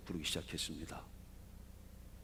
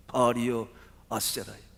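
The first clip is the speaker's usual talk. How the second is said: restrained call to the gods, louder at the start; 2 semitones higher, 6 dB louder than usual. Acted. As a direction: call out to your idols without screaming. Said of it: "신들을 향해서 부르짖기".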